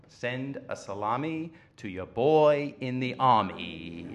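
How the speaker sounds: slow, lightly done outer borough Jewish accent. Shown as a demonstration. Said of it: "real strong outer borough Jewish accent".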